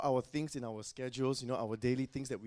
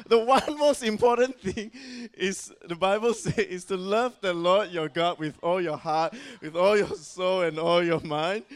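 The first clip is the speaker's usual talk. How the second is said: high, loud and slow, every word weighed; proclaiming loudly; 6 semitones higher, 11 dB louder than usual. Real, not acted. Preacher proclaiming the Bible's first priority to the congregation. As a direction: declare the commandment to the whole room. Quotes the great commandment.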